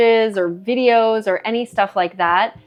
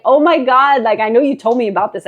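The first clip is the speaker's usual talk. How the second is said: louder, higher imitation of an astonished reaction; freaking out; 4 semitones higher, 5 dB louder than usual. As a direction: retell it as a mock freak-out. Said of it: "Gab and I were freaking out".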